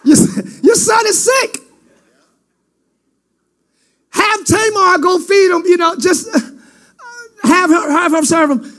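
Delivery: whiny sick son. Acted. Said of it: "He ran to David".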